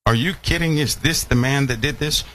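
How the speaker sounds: high, scoffing disbelief; incredulous. Retold or imitated. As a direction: ask it like you can't believe your eyes. Mocking people's disbelief at Satan.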